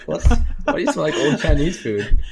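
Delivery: normal talking voice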